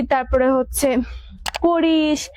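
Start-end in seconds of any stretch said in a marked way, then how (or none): 1.6-2.3 Bengali regional lilt on "করিস" and "খাস"; regional drawl. Shown as a demonstration. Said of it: "যেগুলো হচ্ছে আঞ্চলিকতার টান".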